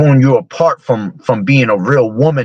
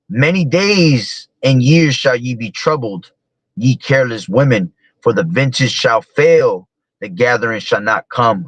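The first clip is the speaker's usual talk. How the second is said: mock biblical prophet; 3 semitones higher than usual. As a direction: pronounce doom like a prophet. Reading scripture aloud.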